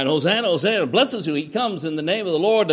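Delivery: crowd crying out. Retold or imitated. People welcome Jesus with hosannas, crying out. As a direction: call it out like a praising crowd. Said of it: "the people begin to cry".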